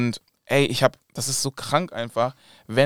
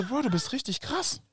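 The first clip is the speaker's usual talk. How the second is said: retold praise; 11 semitones higher, 7 dB quieter than usual. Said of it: "Ich so".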